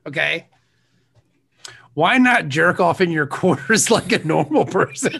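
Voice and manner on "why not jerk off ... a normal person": laughing through the quote; reading notes while giggling; cracking up mid-line. Real, not acted. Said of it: "I'm laughing at my own joke".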